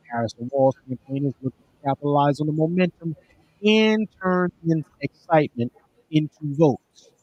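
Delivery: signal cutting in and out; radio breaking up. Real, not acted. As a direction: voice dropping out over a bad connection. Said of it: "your voice is going in and out".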